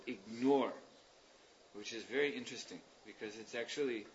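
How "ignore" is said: ignore said as ig-NORE; stress on second syllable. Shown as a demonstration. Lecturer showing where Prabhupada puts it, stress on second syllable. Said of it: "puts the stress on the second syllable".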